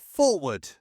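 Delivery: a loud, high order; calling forward. A narrator's reading. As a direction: call the men forward over the din. Officer signalling platoon to advance.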